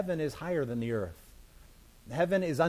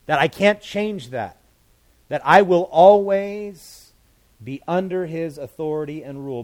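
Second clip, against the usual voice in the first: emphatic preaching; 3 semitones higher, 11 dB louder than usual. Real, not acted. Preacher booming to the congregation. Preacher stresses God's rule.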